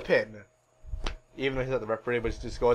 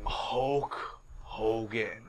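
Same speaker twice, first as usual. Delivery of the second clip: low, very slow, soft awe; hushed reveal; 7 semitones lower, 11 dB quieter, much slower than usual. Acted. Host revealing who comes out, slow hushed awe. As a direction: draw the name out softly.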